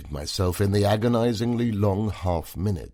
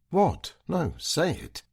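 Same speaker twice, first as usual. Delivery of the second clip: sharp demand; 10 semitones higher than usual. Acted. Wife presses him sharply.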